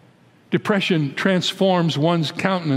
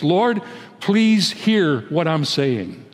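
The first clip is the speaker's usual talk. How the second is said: a desperate king begging to be heard; pleading; slower than usual. Acted. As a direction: plead slowly with God to listen. Preacher voices David pleading.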